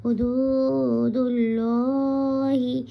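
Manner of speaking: হুদুদুল্লাহি with a rounded, heavy লা; হুদুদুল্লাহি, heavy rounded lam, slow recitation; full heavy Allah. Shown as a demonstration. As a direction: draw out হুদুদুল্লাহি slowly, lips rounded on লা. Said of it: "এটাকে আমরা পুর করে বলবো".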